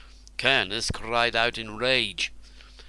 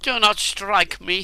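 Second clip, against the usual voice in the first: high, loud frightened plea; begging; 9 semitones higher, 6 dB louder than usual. A narrator's reading. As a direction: beg for your life. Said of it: "he begged".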